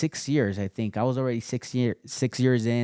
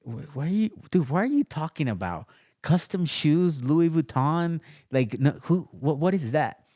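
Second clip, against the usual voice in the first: lightly voiced dad, pitched higher, baffled; a hint of a dad who can't believe it; incredulous dad; 5 semitones higher than usual. Father reacting to son quitting for custom shoes, incredulous. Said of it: "And he's like".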